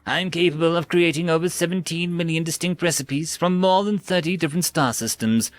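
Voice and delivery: lightly voiced recorded ad; chirpy product pitch; promotional track. Dispenser playing its promo to the enraged man, ad read. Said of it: "the promotional track".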